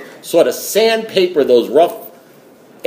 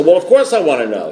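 higher, mildly exasperated retort; acted impatience; 4 semitones higher than usual. Caller answers sponsor's question, mildly exasperated. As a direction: act out a touch of impatience, pitched up.

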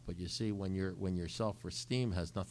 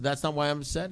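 higher-pitched retold objection; indignant protest; 5 semitones higher, 4 dB louder, faster than usual. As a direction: protest in mild disbelief. He protests to his sponsor.

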